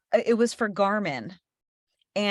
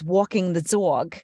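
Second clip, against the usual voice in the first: city-side Jersey "aw" vowels; demonstrated thick New Jersey accent; slower than usual. Shown as a demonstration. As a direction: put on a Jersey accent, rounded "walking" and "dog". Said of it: "I can do it".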